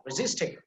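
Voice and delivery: "resistible" with SIS emphasized; stress on second syllable. Shown as a demonstration. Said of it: "This ja sound that is emphasized".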